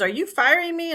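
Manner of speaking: as if the floor just dropped out; dad can't believe his daughter is firing him; stunned disbelief. Retold or imitated. Dad stunned at being fired.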